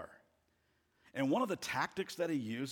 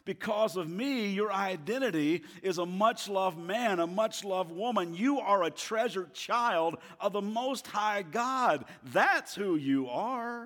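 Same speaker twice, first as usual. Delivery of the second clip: raised, emphatic proclamation; Jesus; 5 semitones higher, slower than usual. Acted. Telling the believer they are a treasured child, emphatically. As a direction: affirm it slowly with rising conviction. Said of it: "hear the voice of Jesus in that moment say".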